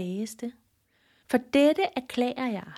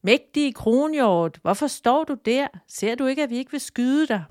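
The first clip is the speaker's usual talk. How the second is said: calling down; 4 semitones higher, 4 dB louder than usual. Acted. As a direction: call out to the stag far below. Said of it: "råbte ned til kronhjorten".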